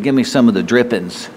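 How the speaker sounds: the right wording, said plainly, Give me some of the drippings; the old folks' saying, said plainly. Shown as a demonstration. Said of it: "They said".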